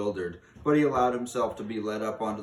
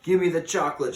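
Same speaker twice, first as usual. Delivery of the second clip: put-on boy yelling for his chocolate, higher and louder; shouted demand; 8 semitones higher, 9 dB louder, faster than usual. A narrator's reading. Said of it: "shouted Bruno".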